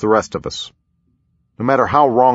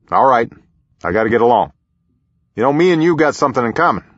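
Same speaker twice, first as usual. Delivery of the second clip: President Bush; 3 semitones higher, faster than usual. A narrator's reading. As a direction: play a genial president showing off a guest.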